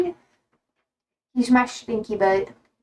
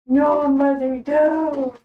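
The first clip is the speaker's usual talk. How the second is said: voicing the dog; 2 semitones higher, much slower than usual. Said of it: "He's like".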